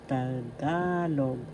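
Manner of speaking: "Tagalog" with a long, stressed GA; accent on second syllable. Shown as a demonstration. Teacher showing learners how to pronounce "Tagalog", stressed on GA. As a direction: stretch the middle syllable of "Tagalog". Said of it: "The accent is in the second syllable".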